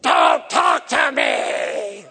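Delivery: hammed-up demon snarl. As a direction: roar it like a possessing demon. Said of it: "she went".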